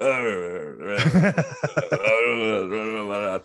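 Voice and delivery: a laughing run of flustered uh, uh sounds; mock them hemming and hawing, half-laughing; imitating stammering family. Family caught out by the money bet, laughing mock stammer. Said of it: "And they kind of went".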